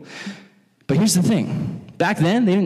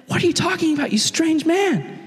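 baffled woman; 11 semitones higher than usual. Retold or imitated. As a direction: stretch it out in disbelief.

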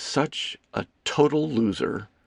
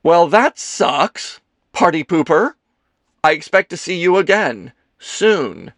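mock outrage; 7 semitones higher, 6 dB louder than usual. A narrator's reading. Kelsey outraged that Leo is leaving, loud and indignant. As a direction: scold with theatrical pique. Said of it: "gave him a look of outrage".

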